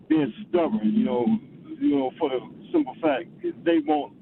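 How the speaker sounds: high, rising excitement about the fans; worked-up caller. Real, not acted. Cleveland caller telling hosts about stubborn fans, pitched high and excited. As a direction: get fired up about the title.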